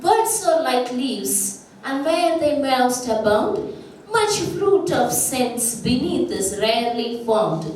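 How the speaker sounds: slow, measured verse reading; a teacher reciting a poem to the class at a slow pace; slow recitation. Shown as a demonstration. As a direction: recite the couplet slowly and deliberately. Teacher recites Pope couplet.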